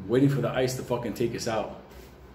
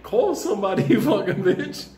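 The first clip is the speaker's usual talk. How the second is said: put-on kids yelling back; 9 semitones higher than usual. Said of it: "You're like".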